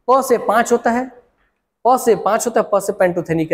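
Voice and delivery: प stressed, pitch up on the mnemonic. Shown as a demonstration. Teacher drilling a mnemonic for students, stressing प. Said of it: "ऐसे याद किया था मैं".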